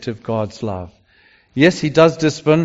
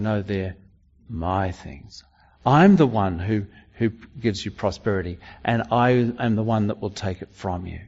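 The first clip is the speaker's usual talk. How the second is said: much softer, low and intimate; God's quiet claim; 7 semitones lower, 8 dB quieter than usual. Acted. Preacher voicing God to Israel, softly and firmly. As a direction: say it softly, as God holding his own. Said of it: "God saying".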